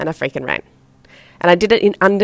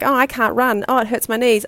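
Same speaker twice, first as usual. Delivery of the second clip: higher, whining complaint; whiny excuse; 5 semitones higher than usual. Retold or imitated. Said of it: "so I would do things like".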